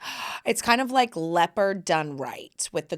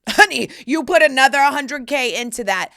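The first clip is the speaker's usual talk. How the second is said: sassy mock aside; 5 semitones higher, 8 dB louder than usual. Mocking rich people, laughing.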